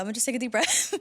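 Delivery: calming herself through a laugh; laughing woosah. Retold or imitated. The speaker calming herself before answering her friend, laughing. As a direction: chuckle while steadying yourself. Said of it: "I had a woosah".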